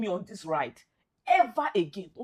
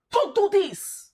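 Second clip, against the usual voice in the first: high loud pleading cry; anguished plea; 9 semitones higher, 9 dB louder, slower than usual. Real, not acted. Fan pleading with the team not to collapse, high and loud. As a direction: cry out begging them to stop. Begging his team, distressed.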